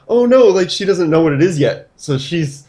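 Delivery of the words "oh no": put-on girlfriend's gasp. Girlfriend voiced in story.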